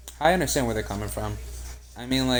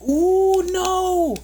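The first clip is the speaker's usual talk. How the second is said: sudden high yelp of dismay; real gasp of disbelief; loud shocked cry; 9 dB louder than usual. Real, not acted. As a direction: shriek it like the shot just went wrong. Reacting to a missed play.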